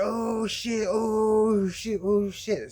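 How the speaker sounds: retold yelp of a friend struck on the leg; mock pained yelp. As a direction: act out getting whipped on the leg. Pat hit with riding crop.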